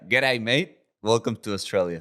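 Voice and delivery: playful visitor's imitation of an Aussie greeting; attempted Australian accent. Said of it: "in your best Australian accent".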